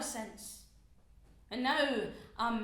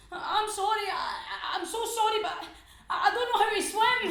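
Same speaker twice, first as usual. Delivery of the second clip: laughing apology; 6 semitones higher than usual. Acted. Drowning man apologising.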